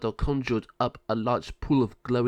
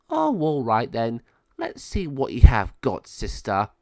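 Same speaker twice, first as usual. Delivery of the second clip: taunting challenge; 5 dB louder than usual. Acted. Malvado daring her sister to fight, taunting. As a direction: relish the coming fight.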